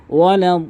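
chanted ওয়ালাদ with heavy d and very long vowel; four-alif stretch. Shown as a demonstration. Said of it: "চার আলিফ টানবেন". (ওয়ালাদ-এ চার আলিফ টান)

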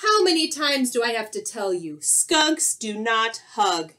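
quick complaint slowing to emphatic words; mildly loud exasperated scolding; exasperated skunk. Acted. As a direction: lay down the law, fed up.

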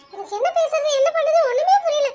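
mother too happy to think, laughing; flustered laughing joy. Acted. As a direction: giggle helplessly, lost for words.

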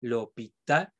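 l'hôpital stressed on its last syllable; stress on final A. Shown as a demonstration. Teacher showing which vowel is stressed, final-A stress in l'hôpital. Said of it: "voy a acentuar la A".

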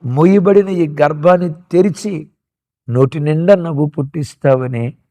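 softly spoken prayer. Shown as a demonstration. Preacher leads the congregation in a hushed prayer of hope. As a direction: lay each need before God gently. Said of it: "ఆ దేవుని వైపు చూసి".

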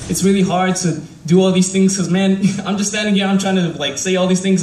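halting, stumbling over words; stuttering. Real, not acted. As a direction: trip over the words nervously. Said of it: "man, I'm just stuttering".

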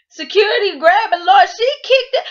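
crying laughing. Real, not acted. Hysterical retelling of fight.

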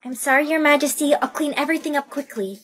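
soft, submissive servant; small, deferential voice; meek apology. Acted. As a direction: apologize timidly to royalty.

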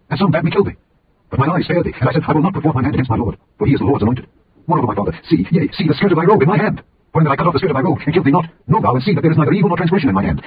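high, impassioned plea of innocence; impassioned cry. A narrator's reading. David calling to Saul from outside the cave, impassioned plea. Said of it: "cried out to Saul".

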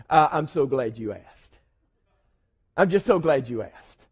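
a hint of Peter grinning, glad to be asked; smiling Peter. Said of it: "Peter with a little smile".

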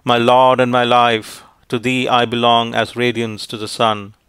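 ordinary delivery, nothing marked

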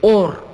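teacher isolating a sound; syllable demo. Shown as a demonstration. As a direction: punch out or on its own. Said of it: "termina con".

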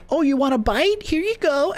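imitated doting parent. Streamer retells enemy feeding a kid, imitated doting parent. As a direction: mimic someone coaxing their little kid. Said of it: "Somebody's, like, raising their kid".

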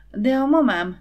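high, loud frightened protest. A narrator's reading. Timid Imre fearing his mother, frightened protest. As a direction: blurt it out in alarm. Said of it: "mondta ijedten Imre".

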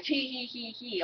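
mock giggle. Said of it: "or, like".

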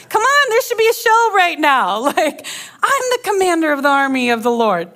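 hammed-up demand for a show; offended general demanding special treatment, comically overdone; mock angry commander. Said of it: "Naaman went away angry".

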